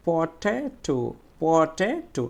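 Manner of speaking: পটেটো slowly, weight on the "te"; stressed middle syllable. Shown as a demonstration. Teacher showing students the stressed syllable, long "te" in পটেটো. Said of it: "কিভাবে করব".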